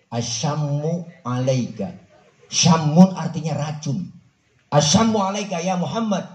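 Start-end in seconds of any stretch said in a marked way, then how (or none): 0.1-1.9 slow, drawn-out sneer; mock sneering greeting. The passing unbeliever sneering at the Prophet. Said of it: "orang kafir lain". 4.7-6.2 a sneer pitched higher; mock sneering greeting. The unbeliever cursing the Prophet, sneering. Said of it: "orang kafir lain".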